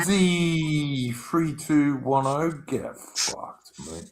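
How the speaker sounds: put-on British accent. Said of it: "I like that accent".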